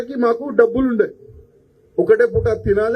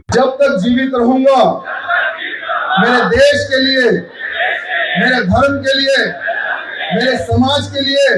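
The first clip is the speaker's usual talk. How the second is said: fiery political speech; slower than usual. Acted. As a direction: declaim it like a vow on stage. Delivers a fiery public pledge.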